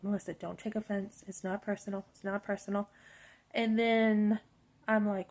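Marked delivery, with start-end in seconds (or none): 0.0-2.9 softly talking herself down; hushed reassurance to herself; quiet self-talk. Retold or imitated. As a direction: murmur to yourself to stay calm. Self-talk, trying not to be offended.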